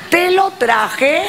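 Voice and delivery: high, very slow "te lo traje"; excited reveal. Real, not acted. Repeated, rising.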